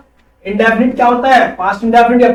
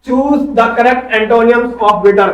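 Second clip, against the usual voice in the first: slow question read; much slower than usual. Shown as a demonstration. Teacher reads out quiz question.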